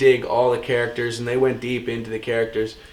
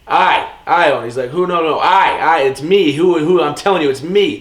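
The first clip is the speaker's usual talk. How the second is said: insistent acted movie line, somewhat higher and louder; Harvey Keitel; 4 semitones higher, 4 dB louder than usual. Retelling the laundromat ownership scene, insistent imitation. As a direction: punch each claim, imitating a tough character.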